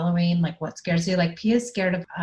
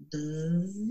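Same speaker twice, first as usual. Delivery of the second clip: playful buzz; 3 semitones lower, 6 dB quieter than usual. Pretend. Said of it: "all kinds of funny, like, jokes".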